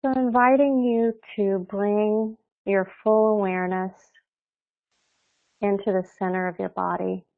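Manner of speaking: calm, unhurried meditation guide with long pauses; guided meditation. Real, not acted. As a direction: ease them gently into their bodies, leaving space between phrases.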